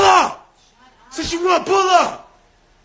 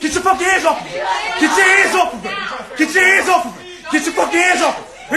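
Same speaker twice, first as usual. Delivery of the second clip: angry shouting; 3 semitones higher than usual. Real, not acted. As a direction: bark the command, enraged. Yelling at officer holding Rachel.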